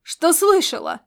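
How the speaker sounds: loud, high snarled comeback; growled retort. A narrator's reading. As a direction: snap it back like a growl. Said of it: "рыкнул Ласло".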